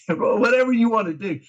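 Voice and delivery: laughing aside about what you'd do. Real, not acted. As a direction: chuckle through the words.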